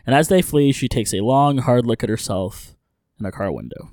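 brisk, animated story-recap read; recap narration. A narrator's reading. Host recapping an episode for listeners, recap narration.

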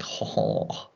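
soft, voiceless French throaty "ho"; imitated French noise. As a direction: imitate French-sounding noises under your breath. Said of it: "French, like".

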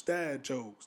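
breathy whispered echo of the title. Shown as a demonstration. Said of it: "That's how I'm gonna do the segment".

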